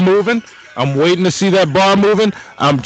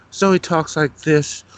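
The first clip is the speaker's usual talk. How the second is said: slow imitation of a co-streamer; slowed-down take on how a friend talks; Zoe's voice; slower than usual.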